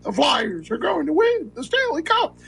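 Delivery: high, excited hockey announcer call; Gene Hart call. Retold or imitated. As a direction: call it like a play-by-play man on the big win. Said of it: "you know, Gene Hart with that".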